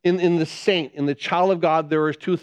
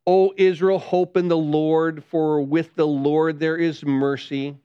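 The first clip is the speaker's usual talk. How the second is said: scripture reading; 2 semitones lower than usual. Acted. Reads psalm verse seven.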